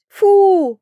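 loud, high "phooey" that falls away; disgusted exclamation. A narrator's reading. Narrator voices a girl who licked smelly fish, disgusted cry. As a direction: spit it out in revulsion.

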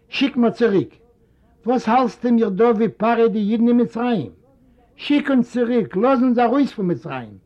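lightly voiced anguished old man; pleading old father. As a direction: cry out to be let go. Father pleads to leave Egypt.

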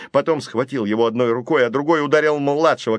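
usual speaking voice

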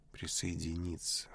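ordinary delivery, nothing marked

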